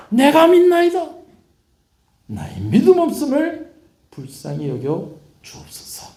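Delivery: high, loud cry of faith that eases into pleading. Acted. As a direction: cry out the belief, then let the plea fall back. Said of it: "큰 소리로 외칩니다".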